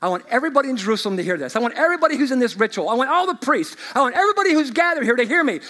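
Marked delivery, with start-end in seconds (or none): 2.9-5.6 rising proclamation. Acted. Preacher building to shout.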